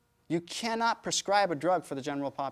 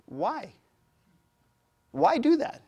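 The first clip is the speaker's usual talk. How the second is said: exasperated; 8 semitones higher, 3 dB louder, slower than usual. Real, not acted. Rhetorical outburst in lecture.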